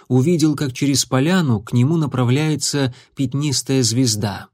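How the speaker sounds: usual speaking voice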